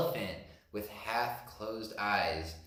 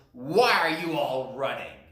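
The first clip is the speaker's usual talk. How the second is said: elephant voice; 5 dB louder than usual. Acted. Elephant voice continues.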